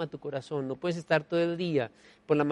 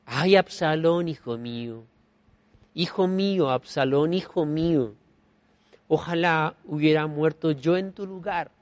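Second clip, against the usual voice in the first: slow, drawn-out grieving cry for his son; weeping king's lament. Acted. King David mourning his dead son, slow lament. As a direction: let each "hijo mío" ache slowly. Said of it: "lloraba y decía".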